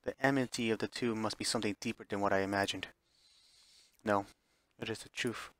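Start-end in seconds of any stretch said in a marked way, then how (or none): 4.0-5.5 smug calm. Acted. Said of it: "displaying a confident smile".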